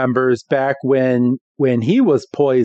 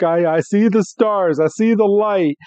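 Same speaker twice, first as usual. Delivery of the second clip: higher, hammed-up deathbed voice; imitated dying Meowth; 7 semitones higher than usual. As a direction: play mock last words, pitched up. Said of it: "Meowth is dying on the ground".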